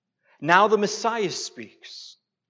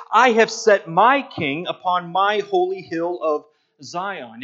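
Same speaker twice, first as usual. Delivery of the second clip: "I" and "my" pushed hard and louder; emphatic I and my; 6 dB louder than usual. Shown as a demonstration. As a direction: lean into "I have set my king". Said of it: "the I and the my are emphatic".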